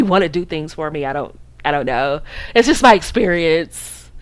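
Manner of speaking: airy feigned bafflement with little laughs; bougie innocence. Shown as a demonstration. Coach showing women how to act above broke men, bougie. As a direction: play it sweetly clueless and above it all. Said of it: "You gotta get bougie on 'em".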